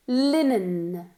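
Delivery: Linen ending on a firm, held N; strong final n. Shown as a demonstration. Teacher holds the final n of Linen for the class. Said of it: "con una N fuerte al final".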